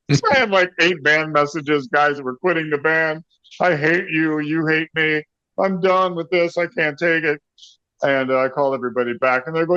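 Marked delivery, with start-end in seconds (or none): 3.6-7.4 higher-pitched retold complaining; mock angry rant. Bandmates quitting by phone message, mock angry. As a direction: imitate fed-up bandmates, pitch up.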